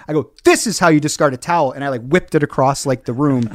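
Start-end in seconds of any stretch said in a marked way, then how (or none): 0.4-1.7 angry. Retold or imitated. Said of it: "I'm so mad".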